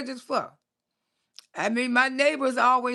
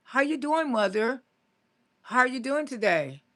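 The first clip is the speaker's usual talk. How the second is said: imitating her careful, proper-English childhood self; lightly put-on proper English; proper speech. Child greeting her mother, proper speech. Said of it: "I didn't used to call my mama mama".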